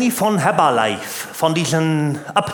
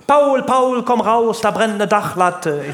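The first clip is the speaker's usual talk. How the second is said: higher, urgent call to Paul; alarmed calling out; 6 semitones higher than usual. Acted. Karl calling Paul out to see something burning, alarmed call. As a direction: call him out in mild alarm, voice raised in pitch. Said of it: "rief der Karl an".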